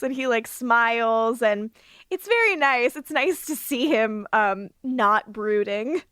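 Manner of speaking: ordinary delivery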